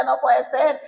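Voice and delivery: high-pitched cry of disbelief; retold cry of disbelief. Wife refusing news of a death, retold outcry. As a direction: re-enact crying out in shock. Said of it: "Yo grité".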